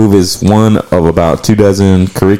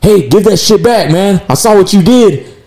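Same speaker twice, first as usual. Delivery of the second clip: much higher, indignant mock callout; retold confrontation; 12 semitones higher than usual. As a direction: voice the worker calling out thieves. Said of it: "and he's like".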